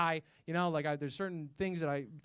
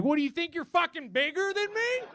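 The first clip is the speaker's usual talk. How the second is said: higher, laughing, threatening God; God voiced as a bully; 10 semitones higher, 4 dB louder than usual. God picking a fight with the big dinosaurs, laughing. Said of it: "was like".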